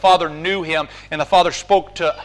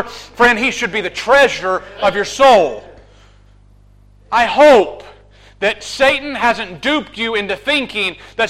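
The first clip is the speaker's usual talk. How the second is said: rising, louder sermon climax; full-force preaching; 3 semitones higher, 4 dB louder than usual. Acted. Preacher urging the congregation, climactic, impassioned preaching.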